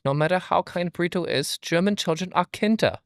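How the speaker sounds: a light mock German accent. Cohost telling the joke in a light mock German accent. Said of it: "you have to say it in a German accent".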